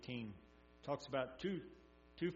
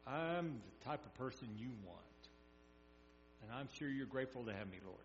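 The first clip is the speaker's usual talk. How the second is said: louder, higher self-satisfied boasting prayer; smug Pharisee; 4 semitones higher, 8 dB louder than usual. Retold or imitated. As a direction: brag to God as a proud Pharisee. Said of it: "his prayer from my standpoint".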